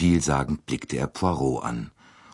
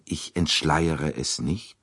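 plain reading voice

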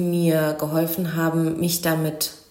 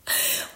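brief laugh; 4 dB quieter than usual. Real, not acted. Amused recalling the book club visit.

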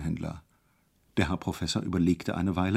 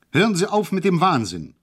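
higher, louder outcry; shouting; 8 semitones higher, 5 dB louder than usual. Acted. Hejula shouts at the orderly in the car, higher and louder. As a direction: cry out to stop the madness. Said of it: "rief ich".

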